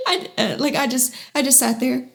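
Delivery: a wet little laugh breaking through tears; teary, half-laughing. Real, not acted. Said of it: "I apologize for crying".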